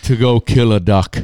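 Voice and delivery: hammed-up jolly Santa granting a wish. Podcast host as Santa to Kevin, mildly jolly and loud.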